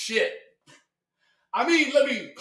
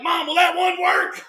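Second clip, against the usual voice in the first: mock kid; 5 semitones higher, 4 dB louder than usual. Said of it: "is like".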